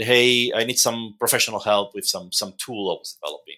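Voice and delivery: plain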